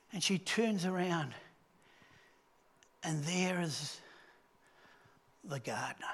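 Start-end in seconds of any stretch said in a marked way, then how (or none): 3.0-6.1 whispered, lower reveal; hushed reveal. A narrator's reading. Preacher reveals the gardener to the congregation, whispered. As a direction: breathe it like a secret.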